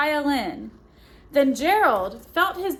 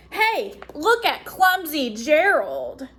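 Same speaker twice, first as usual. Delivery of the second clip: sneering. Acted. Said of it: "the animals all sneered".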